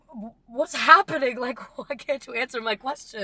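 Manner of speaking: high, loud start easing into a laugh; re-enacted frantic questioning. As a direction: act out a baffled child, half laughing. Acts child pleading for answers.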